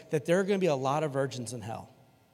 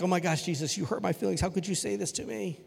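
lightly whiny, wounded protest in a higher pitch; hammed-up hurt; mock hurt feelings; 4 semitones higher than usual. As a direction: play at being offended. Mock hurt reaction to Jesus.

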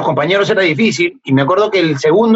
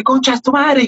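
slow, higher mock insult with foreign accent; imitating the guy's insult; 8 semitones higher, slower than usual. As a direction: drawl the insult like a foreigner learning Spanish. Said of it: "y me dice".

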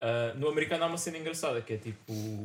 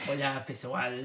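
put-on vampire accent. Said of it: "Isso é sotaque de vampiro?".

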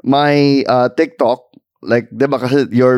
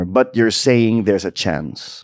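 movie quote; 3 semitones lower, 3 dB quieter, slower than usual. Retold or imitated. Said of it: "in the words nga of, um, that guy in Dumb and Dumber".

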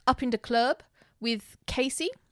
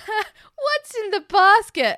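tipsy giggly voice, high, loud and drawn-out; hammed-up high, slow drunken question; laughing; 9 semitones higher, 6 dB louder, much slower than usual. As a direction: imitate her asking through giggles. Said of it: "And then she's laughing".

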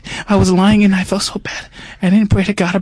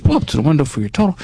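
brisk worker order; 3 semitones lower, faster than usual. Retold or imitated. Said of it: "He said".

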